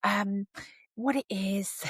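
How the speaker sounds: a hint of a weary fourteen-year-old calling; imitating the teenage daughter. Teen daughter phoning her mother, lightly voiced weary call. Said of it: "they're like".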